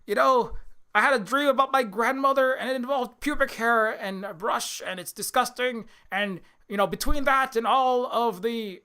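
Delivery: mock-dazed, halting confession with stretched words; Jordan Peterson. Host parodies a confused man recounting his dream, mock-bewildered impression. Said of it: "He's like".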